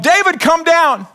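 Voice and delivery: put-on loud call up to a child; yelling up the stairs. Parent yelling upstairs to son, loud call. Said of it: "And I yell up".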